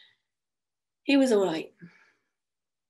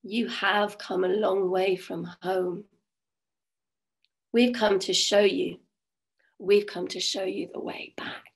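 pixie queen voice. Acted. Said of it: "she said".

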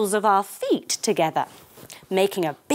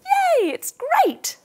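excited whisper; 3 dB louder, slower than usual. A narrator's reading. Clopping off happily.

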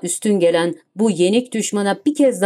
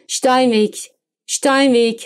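calling out; 4 semitones higher, slower than usual. Acted. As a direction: shout it into the speaking tube. Calling down a tube. (tüpten seslenerek, yüksek sesle çağırma)

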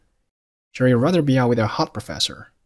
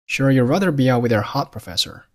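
"rather" stretched and lifted, "with your" passed over lightly; stress on RATHER. Shown as a demonstration. Teacher reading the analysed sentence for learners, stressed "rather". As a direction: lean on "rather" and "hot", keep the rest linked. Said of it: "rather做了重读".

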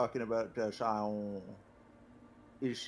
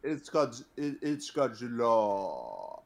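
put-on Japanese accent. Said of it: "that was my Japanese accent".

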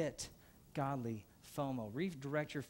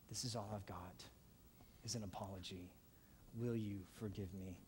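humble apology; 7 semitones lower, 10 dB quieter than usual. Acted. Humble apology asking for forgiveness.

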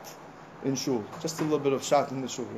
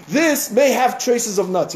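label warning read; 5 semitones higher, 5 dB louder, slower than usual. Pretend. Quoting a food label.

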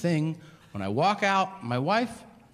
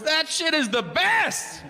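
high, slow, dreamy stoner voice; stoned driver; 12 semitones higher, slower than usual. Retold or imitated. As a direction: drag it out like a blissed-out addict. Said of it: "He goes".

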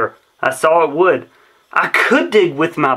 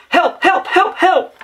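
high repeated yelps, much higher; yelping; 14 semitones higher than usual. A narrator's reading. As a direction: yelp again and again from the pit. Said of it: "I yelped".

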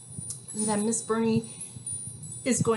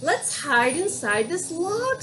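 chipmunk voice; 7 semitones higher, 5 dB louder, slower than usual. Acted. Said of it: "said the stri-, stripy chipmunk".

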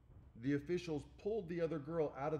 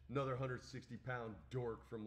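normal talking voice

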